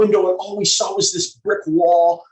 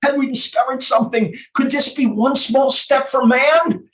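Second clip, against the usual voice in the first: rising hope; 3 semitones higher, 3 dB louder than usual. Acted. Son seeing his sick dad recover, mounting excited hope. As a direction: grow more amazed with each phrase. Monologue builds to miracle hope.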